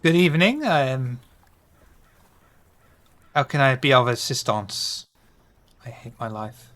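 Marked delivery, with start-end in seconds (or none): 0.0-5.0 lightly voiced French accent. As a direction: greet them like a French butler. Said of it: "Shiver's French accent".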